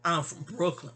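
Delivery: a touch of hometown pride; proud Brooklyn pride. Shown as a demonstration. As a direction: say I'm from Brooklyn with chest out. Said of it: "it's pride".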